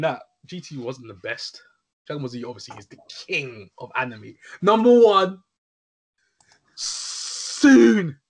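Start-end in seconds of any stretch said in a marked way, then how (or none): 4.6-8.2 announcer voice. Acted. Hyped announcer declaration.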